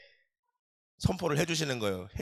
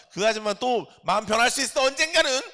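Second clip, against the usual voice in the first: laughing aside; 8 semitones higher, 4 dB louder than usual. Real, not acted. Joking aside about neighbor.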